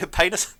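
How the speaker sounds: "Penis" said as PAY-nis; Adelaide A sound. Shown as a demonstration. Amused podcaster repeats Adelaide example, "Penis" as PAY-nis. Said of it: "like, an A sound".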